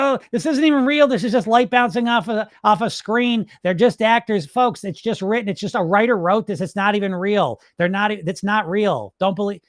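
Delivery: lightly hammed-up doubter; mock skeptic. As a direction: sneer at the screen like a know-it-all. Mocking skeptical moviegoer.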